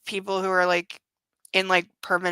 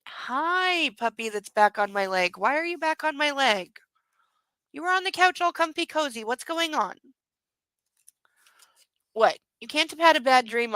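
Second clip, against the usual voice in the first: higher, sing-song voice for the dog; puppy talk; 4 semitones higher than usual. Real, not acted. Cooing at the puppy climbing onto her leg. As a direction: coo at the puppy on your leg.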